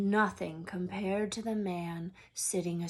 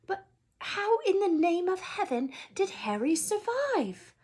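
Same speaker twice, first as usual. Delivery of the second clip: higher, indignant Scottish-tinged teacher voice; McGonagall, agitated; 6 semitones higher than usual. A narrator's reading. Reader voicing McGonagall's shocked outburst, higher and indignant. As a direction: raise the pitch in shocked disbelief.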